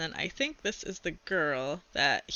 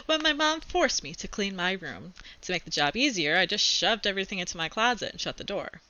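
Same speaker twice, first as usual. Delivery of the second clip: put-on reading a chapter book aloud to kids; steady read-aloud storytelling; story narration. A narrator's reading. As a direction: tell it like a kid's diary read to class.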